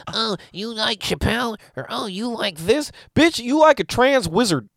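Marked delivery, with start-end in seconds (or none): 0.1-2.9 a sneering impression of a judgy girl; mocking white girl. Mocking white girls who ask about Chappelle, high and snooty. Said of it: "little white bitches being like".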